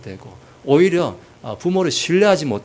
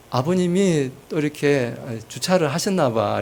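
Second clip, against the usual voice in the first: gentle, kind. Retold or imitated. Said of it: "참 좋게 이야기해요".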